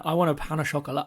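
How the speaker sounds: half-hearted French accent. Shown as a demonstration. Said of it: "really French it up".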